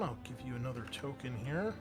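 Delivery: usual speaking voice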